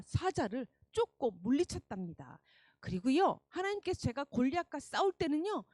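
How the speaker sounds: put-on bold and eager boy; brave. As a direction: speak up bravely to the king. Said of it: "씩씩하게 사울 왕에게 이야기했어요".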